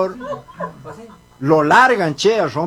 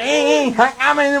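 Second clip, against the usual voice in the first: mute man grunting; 6 semitones higher, slower than usual. Acted. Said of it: "era mudo".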